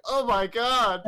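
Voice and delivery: loud, high imitation of a horrified crowd; mock shocked outcry. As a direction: cry out in mock shock, pitch leaping up. Retold crowd shocked at liquefied man.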